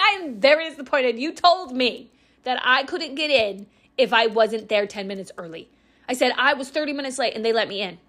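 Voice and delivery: a hint of a disappointed mother scolding; stern mom. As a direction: read it like a strict mom's complaint. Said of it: "like a mom does".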